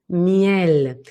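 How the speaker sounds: miel placed forward on the lips; lip-led, forward miel; front placement. Shown as a demonstration. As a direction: draw out miel at the front of the mouth. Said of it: "Y muy delante".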